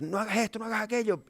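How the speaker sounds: scolding parent. Retold or imitated. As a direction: mimic a parent scolding a kid. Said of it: "Tú puedes decir". (padre regañando, voz más aguda)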